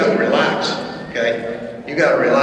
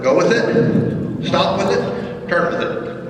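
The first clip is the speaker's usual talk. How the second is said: slow, drawn-out rhythmic cues; slow spoken cues; 3 semitones higher, slower than usual. Shown as a demonstration. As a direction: spell out each cue slowly, one by one. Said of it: "I wanna go with it".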